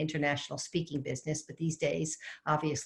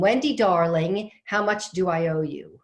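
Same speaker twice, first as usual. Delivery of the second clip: retold scream; 5 dB louder than usual. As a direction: call out the question as an old mother calling from afar. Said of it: "I can hear her scream".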